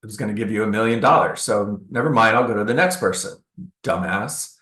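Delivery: dry, quick mocking brush-off; sarcastic. Agent mocking a homeowner who hung up, sarcastic. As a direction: toss it off with a sneer. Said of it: "the sarcastic part of me comes in".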